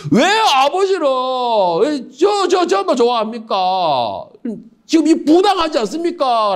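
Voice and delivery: slow, whining jealous son; slow whining son to his father. Acted. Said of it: "라는 것이에요".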